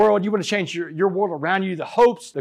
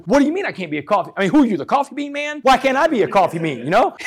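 raised, louder mock confrontation; half-acted indignant challenge, pitched higher; retold anger; 7 semitones higher, 5 dB louder than usual. Confronting cellmate Carlos in their cell, mock angry protest. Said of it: "I got mad. Boy, I got up in Carlos's face".

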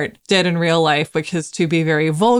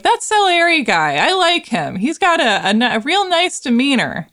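mock admiring; 7 semitones higher than usual. Everyone else mocked praising Salieri.

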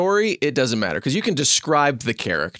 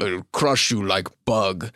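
lowered giant voice; big giant; 5 semitones lower than usual. Pretend. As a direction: drop down into a giant's voice. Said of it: "for a big giant".

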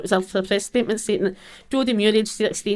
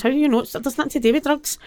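retold protest; 6 semitones higher than usual. Retelling her argument with police.

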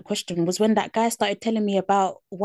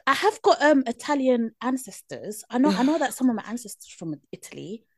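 mock proud white person; 4 semitones higher than usual. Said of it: "They'll say".

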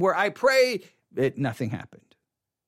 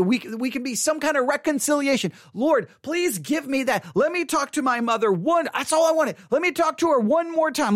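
higher-pitched, urgent plea; pleading prayer; 8 semitones higher than usual. Retold or imitated. Teenage son begging God to wake his mother, pleading. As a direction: beg for one last chance. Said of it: "but I was praying".

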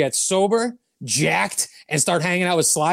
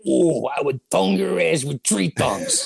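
sleazy come-on; slower than usual. Retold or imitated. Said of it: "he's like".

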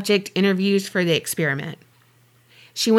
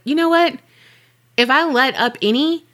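higher-pitched mock self-justification; lightly acted, pitched-up justification; defensive retort; 5 semitones higher than usual. John Wayne guard justifying his tough role, defensive.

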